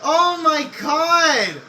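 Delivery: laughing yes, then slow high oh my god; relieved win. Real, not acted. Wins the race.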